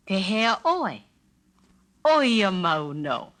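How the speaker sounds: slow, level Oia mau no; slow, even same as ever. Shown as a demonstration. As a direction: drawl it out evenly, nothing new. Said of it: "absolutely no change".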